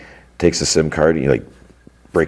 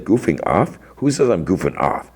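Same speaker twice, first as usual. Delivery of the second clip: mildly indignant retold comeback, pitched up; indignant echo; 4 semitones higher than usual. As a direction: throw the accusation back as a question. Brother objects to an accusation.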